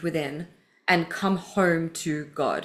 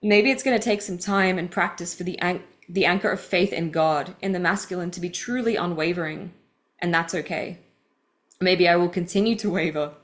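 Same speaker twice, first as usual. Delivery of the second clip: measured, earnest read of personal writing; deliberate, heartfelt book reading; reading aloud. Acted. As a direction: read your own confession out with care. Reads her book passage aloud.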